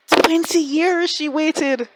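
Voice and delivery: high, loud and slow; emphatic awe. Real, not acted. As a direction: drag it out in awe. Emphatic fan reaction.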